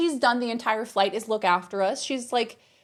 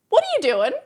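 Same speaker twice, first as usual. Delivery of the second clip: high-pitched imitation of a fed-up scolding; raised, indignant "had enough" voice; fed-up confrontation; 8 semitones higher, 4 dB louder, faster than usual. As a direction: call him out, retold with exasperation. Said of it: "Laws had had enough".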